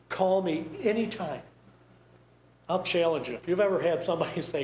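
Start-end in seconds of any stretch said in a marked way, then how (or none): 0.1-1.4 breezy, empty offer said lightly; hollow politeness. Retold or imitated. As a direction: toss it off like you don't mean it. Imitating dismissive mourner at funeral.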